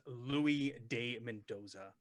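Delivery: put-on unhurried Spanish-accented introduction. Aloof man gives his name to a stranger, slow Spanish accent. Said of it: "he's got a, a, a Spanish accent".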